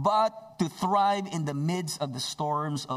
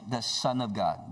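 exclaimed; 3 semitones lower, slower than usual. Acted. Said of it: "they exclaimed".

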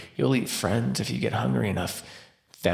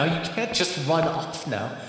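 broken plea; 6 semitones higher, slower than usual. Acted. Hunter gone, vampire pleads.

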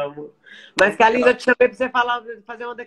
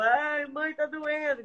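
higher child voice, mock crying; imitating a crying child; 8 semitones higher, much slower than usual. Mother retelling her son crying from a cut, higher mock sob. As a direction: squeak it like a hurt little boy. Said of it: "E ele chorava".

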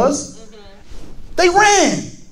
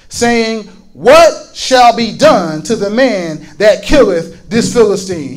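lower, measured Bible reading; solemn read-aloud scripture in a lower pitch; 4 semitones lower than usual. A narrator's reading. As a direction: read the verses out deliberately to a congregation.

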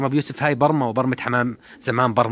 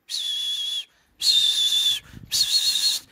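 pigeon hiss; much slower than usual. Real, not acted. Hissing at the pigeons.

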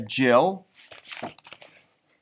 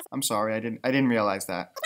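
sheepish apology; 7 semitones lower, 6 dB quieter than usual. Pretend. Caller embarrassed after being refused.

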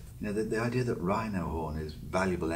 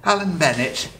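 higher, louder Yorkshire voice; Alan Bennett; 6 semitones higher, 10 dB louder than usual. Retold or imitated. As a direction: lift it into a pitched-up Leeds lilt. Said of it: "I've turned into Alan Bennett".

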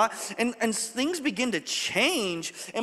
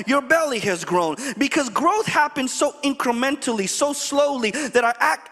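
full-force preaching; 3 semitones higher than usual. Acted. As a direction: preach it to the congregation. Preaching the lesson.

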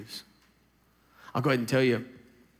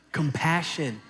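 with gusto; 3 semitones higher, slower than usual. Shown as a demonstration. Preacher urging the congregation to say it with gusto. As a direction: punch COMPASSION out with gusto. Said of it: "now you can say it with all your little gusto".

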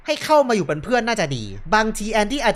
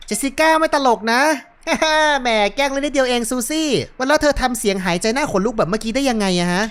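teasing girlfriends' phone chat, lightly acted; two friends phoning; 3 semitones higher than usual. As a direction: play both friends with lifted, lively voices. (พากย์เพื่อนสาวคุยโทรศัพท์หยอกกัน)

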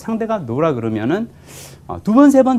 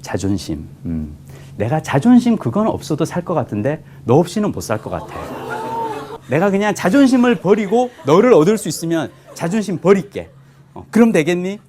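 earnest romantic reply; 3 semitones higher than usual. Retold or imitated. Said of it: "그럼 저는 그럽니다".

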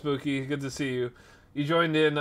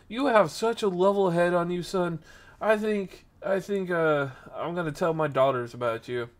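lightly voiced impressed dad, starting higher; imitated older man; 4 semitones higher than usual. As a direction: play a proper man with a bit of slang, sizing you up. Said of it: "he's black. He, he has some slang".

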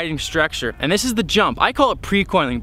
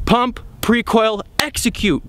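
slow listed steps; 3 semitones higher, slower than usual. Shown as a demonstration. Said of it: "and then boom".

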